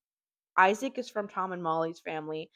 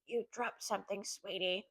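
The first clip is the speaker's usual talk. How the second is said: soft, sugary villain taunt; mock sweet villain; 2 semitones higher, 7 dB quieter than usual. Geraldine taunting the dead mother, softly sweet. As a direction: purr it softly, poisonously sweet.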